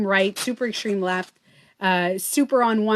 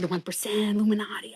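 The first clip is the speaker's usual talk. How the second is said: conspiratorial whisper; 4 dB quieter, faster than usual. Retold or imitated. Her old conspiracy-preaching self.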